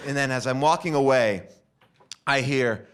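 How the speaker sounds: ordinary talk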